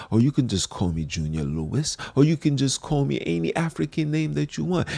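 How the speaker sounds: mock a proper suited announcer; a hint of a polished gentleman introducing himself; mock polite presenter. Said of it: "more self-spoken and say".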